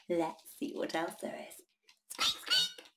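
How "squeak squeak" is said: high squeaky mouse voice; mouse squeak. Acted. Imitating a mouse.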